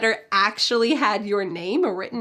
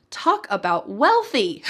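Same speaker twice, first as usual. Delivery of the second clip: slow down and lean hard on "wealthy"; emphatic exclamation; 3 semitones lower, slower than usual. Shown as a demonstration. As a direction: punch "wealthy" as the big point. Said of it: "using this for emphasis".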